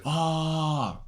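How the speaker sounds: high, contented sigh of relief; a pleased ah he never made; satisfied ah. Shown as a demonstration. Contrasting the relieved sound he never made, content ah. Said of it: "Never in life have I said".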